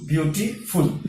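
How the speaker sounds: "ब्यूटीफुल" broken before "फुल"; syllable by syllable. Shown as a demonstration. Teacher showing the syllables to students, "ब्यूटीफुल" said in parts. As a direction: set "फुल" apart with a short pause. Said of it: "इसमें भी तीन syllables".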